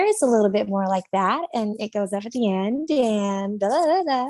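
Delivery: Californian uptalk, rising at the ends; Californian accent. Shown as a demonstration. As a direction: let phrases lift like a Californian. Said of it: "if I was from California".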